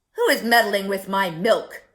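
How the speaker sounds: loud angry bark from the milkman; angry shout. A narrator's reading. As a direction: shout it at the thief in the can. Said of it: "he shouted".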